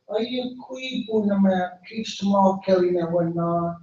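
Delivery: a hint of a small bird greeting politely; little bird.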